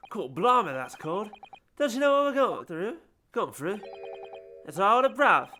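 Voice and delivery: Cockney brother pleading his case to the court. Acted. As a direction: push hard in a Cockney brother voice.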